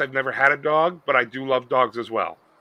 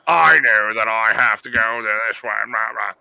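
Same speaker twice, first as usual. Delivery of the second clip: a hint of an old Jewish lady, lower; lightly voiced elderly Jewish woman; 5 semitones lower than usual. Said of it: "It's like the old Jewish woman voice".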